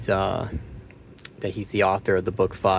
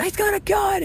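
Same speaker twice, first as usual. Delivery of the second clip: mock cop alarm.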